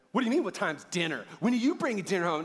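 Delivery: hammed-up defensive snapping; mock offended retort. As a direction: overreact to an innocent question. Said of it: "you misread the tone in their inflection".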